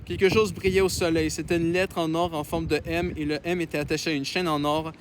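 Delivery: measured read-aloud voice; story narration. Acted. Reads a novel aloud.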